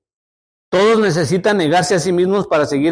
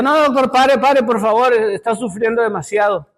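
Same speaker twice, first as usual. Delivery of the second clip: a mother's raised, begging cry to the doctor; tearful pleading; 4 semitones higher than usual. Retold or imitated. Mother begging the doctor to stop hurting her son, tearful plea. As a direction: plead with him to stop, voice lifted and pained. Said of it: "la mamá lloraba con él".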